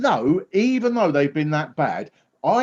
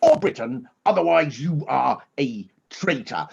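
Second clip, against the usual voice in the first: Boris Johnson impression; 2 semitones lower than usual. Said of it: "Johnson was going".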